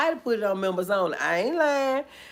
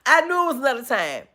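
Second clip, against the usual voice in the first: laughing shout at the start, then fast; retold outburst; 6 semitones higher, 4 dB louder than usual. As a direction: replay the night she went off, half laughing. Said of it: "I was like".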